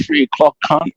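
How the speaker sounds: shoots up high in mock disbelief; incredulous mate. Mate woken at three, asked for help, squeaks back in mock disbelief. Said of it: "but you're like".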